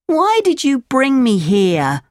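put-on high, slow puppet boy question; Pinocchio, upset. A narrator's reading. Pinocchio confronts the tricksters, high upset voice.

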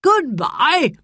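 gentle gentleman's farewell call; calling goodbye. Acted. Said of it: "called the old gentleman".

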